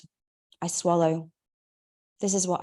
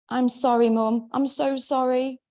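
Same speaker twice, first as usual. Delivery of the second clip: higher, louder, apologising through tears; crying apology; 6 semitones higher, 3 dB louder than usual. A narrator's reading. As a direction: break down and apologise. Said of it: "I start to cry".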